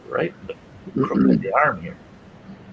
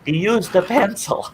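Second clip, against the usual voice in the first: yelled out the window; 11 semitones higher than usual. Retold or imitated. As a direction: holler it out a car window. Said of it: "I yelled it out the car window".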